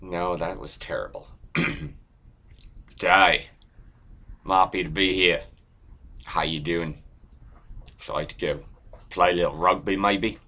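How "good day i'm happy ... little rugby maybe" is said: casual Australian greeting; Aussie accent. Shown as a demonstration. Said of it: "Aussie, too".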